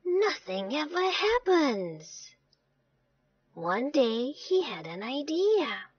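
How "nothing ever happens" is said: higher, soft plaintive moan; mildly whiny complaint.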